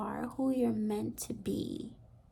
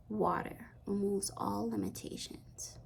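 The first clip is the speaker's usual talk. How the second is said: hushed, breathy whisper, softer; 3 semitones lower, 6 dB quieter than usual. Acted. Reader to viewer, repeating the message in a hush. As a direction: whisper the word removes with a falling close.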